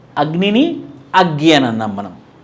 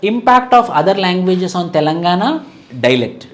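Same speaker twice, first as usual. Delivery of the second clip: slow, spaced dictation for notes; 2 semitones higher, much slower than usual. Acted. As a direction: dictate each phrase slowly so students can write. Dictates a topic heading. (నెమ్మదిగా notes చెప్పడం)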